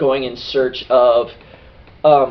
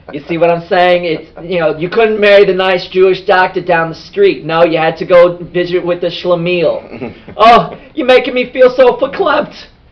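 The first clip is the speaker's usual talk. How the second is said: put-on old woman voice; 5 semitones higher, 4 dB louder than usual. Telling a story about a mother and her daughters, in an old jewish lady voice. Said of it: "I end up sounding like an old Jewish lady".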